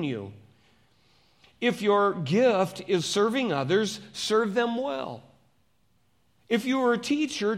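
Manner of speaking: emphatic Bible reading, phrase by phrase; scripture reading. Acted. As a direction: read scripture out firmly to a congregation. Reads scripture to congregation.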